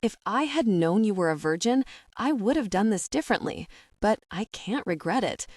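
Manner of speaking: a touch of gentleness, lightly voiced; mildly gentle reassurance. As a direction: soften it a little for her. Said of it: "keeping his tone gentle".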